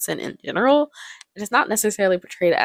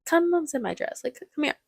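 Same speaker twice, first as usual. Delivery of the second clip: imitating a woman luring someone closer; coaxing Mrs. Robinson; 9 semitones higher than usual. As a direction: beckon them over in mock seduction. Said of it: "Missus Robinson is like".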